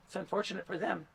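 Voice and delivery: chuckling through the words; amused aside, laughing. Real, not acted. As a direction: laugh as you say it.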